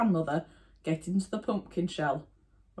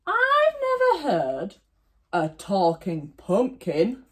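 wolf voice; 2 semitones higher, slower than usual. Acted. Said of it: "said the wolf".

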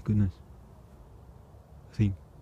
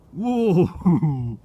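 a loud, high whoa; real amazed whoa at the vanishing worm; surprised whoa; 7 semitones higher, 4 dB louder than usual. Real, not acted. Sees a huge worm.

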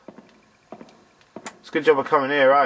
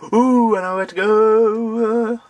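high, slow drawn-out monkey hoot; 7 semitones higher, 4 dB louder, much slower than usual. Acted. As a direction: hoot the words like a creepy game monkey. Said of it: "I sounded like a monkey from Silent Hill four".

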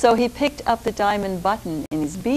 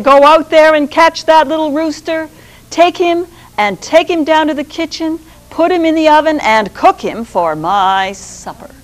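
higher, louder furious orders; furious Sultan; 5 semitones higher, 9 dB louder than usual. Acted. Furious Sultan ordering the rooster cooked for supper, loud. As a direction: Sultan raging at servants.

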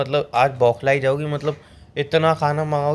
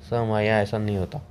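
waiter voice; 4 semitones lower, faster than usual. Retold or imitated. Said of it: "वही waiter".

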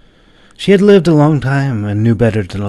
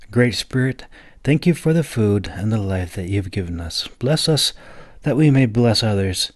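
prayer. A narrator's reading. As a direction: pray over the food gently. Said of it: "took a deep breath before beginning".

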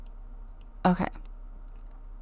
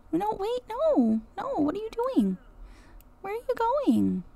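high alarmed protest; 10 semitones higher than usual. Real, not acted. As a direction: call after the wandering cat in alarm. Cat wanders off.

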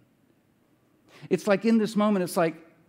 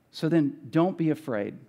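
calm promise, easing down at the end; kindly reassurance; 4 semitones lower than usual. Retold or imitated. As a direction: reassure them kindly as Joseph, understated. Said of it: "he reassured them and spoke kindly to them".

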